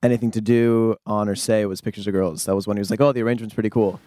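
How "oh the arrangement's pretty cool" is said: mock surprised oh. Band retelling their surprise at the producer's praise, mock astonished.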